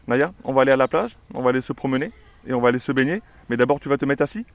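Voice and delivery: lively singsong, rising at the end; cheerful to the dog. Shown as a demonstration. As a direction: tease the dog with the outing, then ask. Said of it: "mettre l'ordre assis à la fin de la phrase". (annoncer gaiement la sortie à la chienne, question à la fin)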